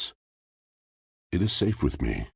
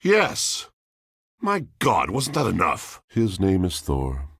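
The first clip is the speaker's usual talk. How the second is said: a cry leaping far higher, then falling back; anguished outburst; 5 semitones higher than usual. Acted. Spirit cries out to the traveler about losing Thor, high anguished outburst. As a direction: burst out as if the pain were obvious.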